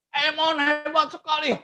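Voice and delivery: put-on a slow, shy child reads his own praise aloud; lightly voiced child sounding out each word; slow child reading. Boy reads to the teacher, slow child voice.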